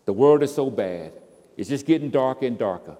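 building from firm to a full loud cry; complaining prayer. Acted. Preacher voicing a selfish believer's prayer, rising to a loud cry. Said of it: "the paradigm we say that in is".

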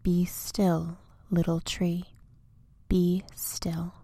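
calm him gently like a friend; tender hush. Acted. Big tree gently comforting little tree during storm. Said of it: "would tell him so dear".

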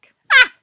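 short high startled shriek; sudden loud "Ah!", retold shock; napodobený výkřik. Vykřikne při historce o ptákovi. (krátký zděšený výkřik)

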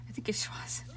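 unsure whisper. Real, not acted. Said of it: "I could be completely wrong here".

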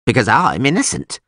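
put-on proudly protesting old prisoner. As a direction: declare it with dignity. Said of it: "he answered proudly".

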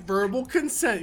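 high quote voice; imitated alien. Friend quoting the little alien, high imitated voice. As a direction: lift the pitch on "Verbal consent". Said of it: "Yeah, he's like".

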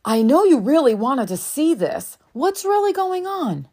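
put-on gentle, caring question to a child; gentle mom voice. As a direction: coax the truth out of a sad kid. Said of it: "I asked him gently".

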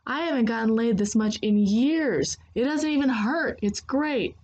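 gleeful, lightly played taunt; laughter in voice. A narrator's reading. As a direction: tease with amusement lifting the pitch. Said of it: "with laughter in his voice".

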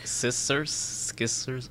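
"Skissers" with a k slipped after the s; searching mispronunciation. Shown as a demonstration. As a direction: puzzle out a wrong "scissors" aloud. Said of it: "how do they say it?".

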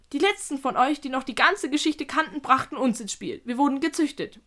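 lively creature voice with punched words; lecturing spider. Acted. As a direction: explain it animatedly as the spider.

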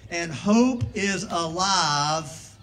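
"hope" drawn out slowly and loud; slow down and lean on "hope"; slow emphatic. Shown as a demonstration. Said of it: "Say it with me".

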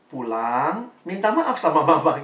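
unruffled, measured repeat; patient counsel; calm advice. Retold or imitated. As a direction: repeat the instruction evenly, not arguing. Pastor repeats calm advice to teen.

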